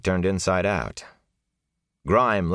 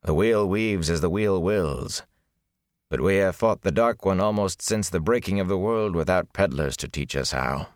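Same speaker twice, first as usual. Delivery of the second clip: dry. Acted. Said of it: "Agomar said dryly".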